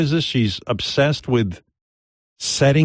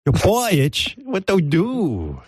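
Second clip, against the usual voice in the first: put-on high accented girl voice; mock ladyboy; 7 semitones higher than usual. Ladyboy quizzes friend about excuse, high mock voice. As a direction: question as a high-pitched ladyboy.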